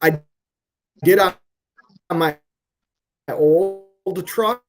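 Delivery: choppy, robotic connection dropouts; robotic glitchy audio. Real, not acted. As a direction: voice breaking up like a bad connection. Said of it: "you turned into a robot there for a second".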